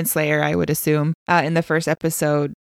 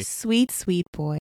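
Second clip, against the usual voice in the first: doting echo; 5 dB quieter, slower than usual. Acted. Echoing the doting phrase.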